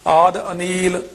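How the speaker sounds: level, drawn-out chant-like reading; measured scripture recitation. Shown as a demonstration. Teacher reciting verses for students, measured chant-like recitation. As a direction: recite each phrase evenly with pauses.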